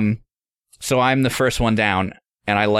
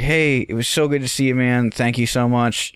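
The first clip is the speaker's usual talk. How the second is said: lightly pitched-up, over-nice thanks; retold polite goodbye. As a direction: imitate a tactful exit line. Polite exit from pissed host.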